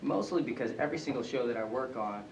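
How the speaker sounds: talking around a piece of candy; candy in the mouth, slightly muffled; mouth full. Real, not acted. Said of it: "sorry, I got candy in my mouth".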